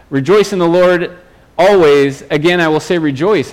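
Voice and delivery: emphatic proclamation. Acted. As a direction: proclaim it like an apostle's order. Preacher quotes Paul's emphatic command.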